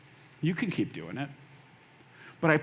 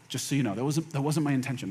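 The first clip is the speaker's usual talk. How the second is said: gentle clarifying; 5 semitones lower, 5 dB quieter, faster than usual. Acted. Models gentle step-three clarification.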